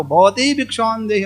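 slow, drawn-out begging call; mendicant's alms call. Retold or imitated. Beggar calling at a rich man's door, drawn-out alms call. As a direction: stretch it out like a wandering mendicant.

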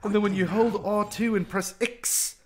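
badly faked, drifting dialect of English; muddled accent. Gamer explaining the spell controls to viewers in a muddled fake accent. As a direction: put on a wobbly accent you can't place. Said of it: "I don't know what this accent is".

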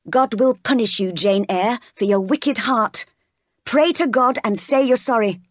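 lightly voiced pious reproof; stern maid. Miss Abbott threatening God's punishment, sternly. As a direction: admonish her with mild severity.

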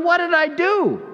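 high, loud "what did I do?"; mock innocent surprise. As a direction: play wounded innocence. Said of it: "And I'm going".

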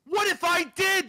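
high, slow, pointed challenge; angry challenge. Real, not acted. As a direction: throw it back as a provocation. Real challenge in a quarrel.

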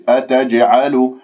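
أتجعل recited slowly with clear letters; slow recitation demo. Shown as a demonstration. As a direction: model the word أتجعل carefully. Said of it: "أتجعل فيها".

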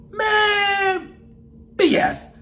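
high, loud fed-up outburst; fed up, done with it; exasperated. Real, not acted. Dismissing album.

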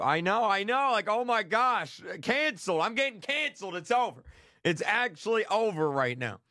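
high-pitched mock despair at being canceled; mock dismay. Streamer fretting to viewers about getting canceled, mock dismay. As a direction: play up the doom, voice lifted.

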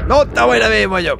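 very high, loud squeaky retort; squeaky character voice. Pretend. Gamer voicing a character denying blame in a squeak. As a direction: squeal back like a cartoon critter.

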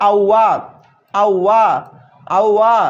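"আওয়া" modelled as a gliding "ow-wa"; teacher drilling "আওয়া" with pauses between; pronunciation demo. Shown as a demonstration. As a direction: repeat "আওয়া" separately, ow running into wa. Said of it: "যৌগিক স্বর উচ্চারণ করছে".

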